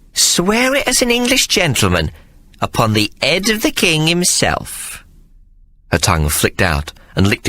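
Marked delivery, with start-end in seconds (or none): 0.1-5.0 mock-solemn demand. A narrator's reading. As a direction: demand the oath grandly. Hannah demanding oath.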